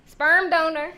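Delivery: laughing punchline, loud; said through a laugh. Real, not acted. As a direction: blurt it out laughing.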